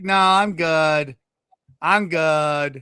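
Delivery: slow, drawn-out brush-off; unhurried imitation of a polite pass; mock casual refusal. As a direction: stretch it lazily, imitating someone declining. Imitating comics declining a long drive.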